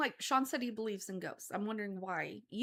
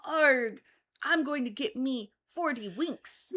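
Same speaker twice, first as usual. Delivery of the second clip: loud slow hammy pirate; 4 semitones higher, 5 dB louder, slower than usual. Pretend. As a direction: ham up a pirate. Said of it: "Give me your pirate".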